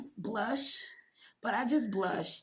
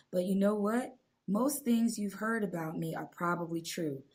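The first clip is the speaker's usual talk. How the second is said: sexy voice; 3 semitones lower than usual. Acted. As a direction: read it like a sultry narrator. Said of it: "my sexy voice".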